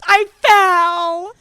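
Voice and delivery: loud high tearful cry; hammed-up wail for sympathy; mock wail. Telling Kiara about the fall, loud mock-bawling. Retold breakdown on seeing friend.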